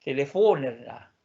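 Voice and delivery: telefonerna with stress kept on the last syllable, -erna; Swedish word. Shown as a demonstration. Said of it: "porque la acentuación se mantiene".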